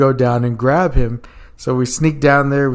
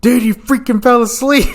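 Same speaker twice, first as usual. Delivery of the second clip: much higher, louder, laughing scold; laughing mock anger; 11 semitones higher, 5 dB louder than usual. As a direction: mad yet cracking up. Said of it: "Perez is pretty mad".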